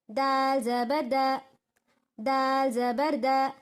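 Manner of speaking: slow, even syllable chant; sing-song recitation of Arabic spelling; Quran reading drill. Shown as a demonstration. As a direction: spell each letter out like a Qaida teacher.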